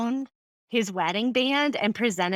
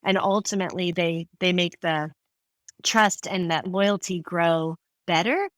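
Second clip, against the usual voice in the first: normal talking voice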